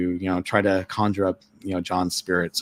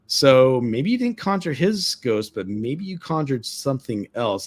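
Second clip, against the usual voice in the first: ominous; 5 semitones higher than usual. Retold or imitated. Guard hinting at something eerie.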